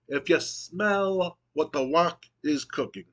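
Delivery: slow, drawn-out signature line; The Rock catchphrase. Retold or imitated. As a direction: land the catchphrase slowly like a wrestler signing off. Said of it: "He goes".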